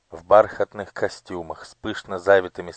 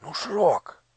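horrified whisper; 11 semitones higher than usual. A narrator's reading. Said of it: "с ужасом шепнула Ело".

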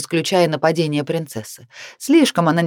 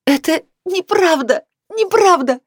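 angry shout; 12 semitones higher than usual. A narrator's reading. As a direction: scream the denial in anger. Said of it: "она гневно прокричала".

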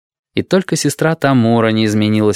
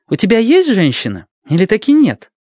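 pressing nurse; 12 semitones higher, 3 dB louder than usual. Acted. Tamura pressing Tengo.

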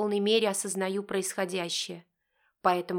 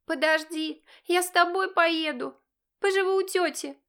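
high, loud bratty declaration; willful teenage proclamation; sudden announcement; 9 semitones higher, 5 dB louder than usual. Acted. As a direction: announce it defiantly. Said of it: "объявляет вдруг Олька".

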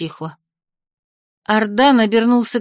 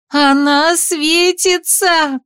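much higher, very slow desperate cry; desperate shout; 7 semitones higher, 3 dB louder, much slower than usual. A narrator's reading. Heroine cries as the glow becomes blinding, desperate. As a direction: scream the warning as it blinds. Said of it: "отчаянно крикнула я".

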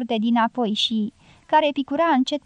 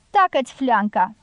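first "Tacă-ți fleanca!" only a little raised, held back; mild shout. Acted. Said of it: "strigă femeia lui Pablo".

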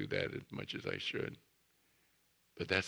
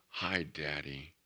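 tender greeting; 3 semitones lower, slower than usual. Retold or imitated. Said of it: "the little boy says".

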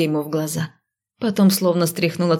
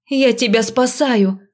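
indignant; 5 semitones higher, slower than usual. A narrator's reading. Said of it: "возмутилась я".

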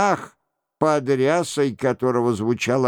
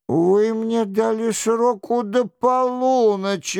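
high-pitched protest; objecting; 6 semitones higher than usual. A narrator's reading. King protests he has until midnight, objecting. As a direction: object in a raised, insistent voice. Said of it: "возразил король".

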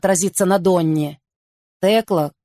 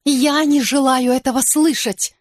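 sobbing; 6 semitones higher than usual. A narrator's reading. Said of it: "всхлипнула Вирджиния".

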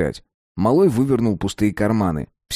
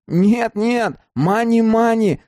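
shouting back; 13 semitones higher, much slower than usual. A narrator's reading. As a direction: yell it back to calm him. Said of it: "закричал в ответ малой".

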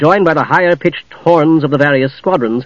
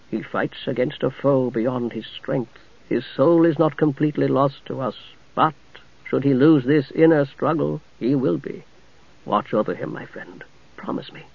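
solemn ghost knight; 8 dB quieter than usual. Acted. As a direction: speak like a grave spirit.

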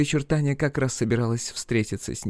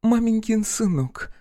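mild scorn, drawn out at the end; dismissive huff about someone she despises; scornful snort; 3 semitones higher than usual. Acted. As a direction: sneer the last words slowly, pitched higher. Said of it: "фыркнула она".

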